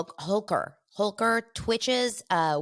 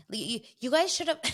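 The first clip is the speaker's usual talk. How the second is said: excited; 7 semitones higher than usual. Real, not acted. Excited disbelief retelling.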